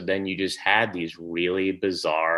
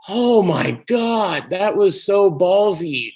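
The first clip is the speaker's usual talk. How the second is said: higher, louder, slow amazed "so ballsy"; awed excitement; 10 semitones higher, 6 dB louder, slower than usual. Retold or imitated. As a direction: relive the thrill of seeing something daring. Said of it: "And I was like".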